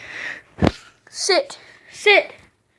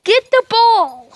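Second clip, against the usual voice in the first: higher, slower exasperation; higher incredulous scolding; exasperated; 6 semitones higher, slower than usual. Real, not acted. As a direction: scold the dog in disbelief. Frustrated at dog.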